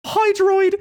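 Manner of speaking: high, loud shout of recognition; excited shout. Real, not acted. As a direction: blurt the name out, thrilled. Finally remembers the frame name.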